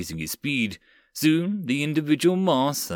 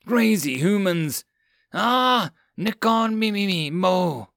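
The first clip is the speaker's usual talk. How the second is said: frantic yell; 7 semitones higher, slower than usual. Acted. Cat girl fleeing yelling.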